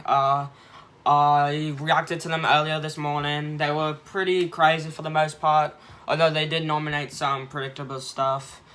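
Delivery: bad British accent sliding into Australian; terrible British accent. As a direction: put on a hammy, unconvincing British accent for the intro. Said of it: "Sorry for my terrible British accent".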